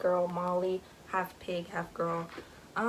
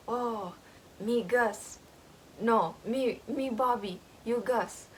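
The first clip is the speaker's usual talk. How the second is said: lightly voiced simple childlike talk; a hint of a creature who never learned to talk; broken speech; 2 semitones higher, slower than usual. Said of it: "you ain't gotta say it like that".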